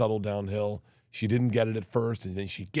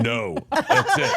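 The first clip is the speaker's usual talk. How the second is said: high, loud, slow Russian voice; mock Russian accent; 5 dB louder, much slower than usual. Answering about accents in mock Russian. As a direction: drag it out in a hammy Russian accent. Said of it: "do you do accents other than Russian".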